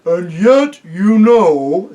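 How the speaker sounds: she-elephant musing. A narrator's reading. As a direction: ponder aloud. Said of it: "said the elephant".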